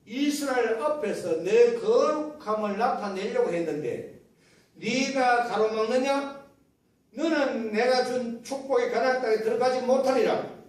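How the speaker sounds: loud, acted divine rebuke; imitated stern divine verdict; God's pronouncement. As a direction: pronounce judgment as God, firmly. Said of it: "하나님께서 모세에게 말씀하시기를".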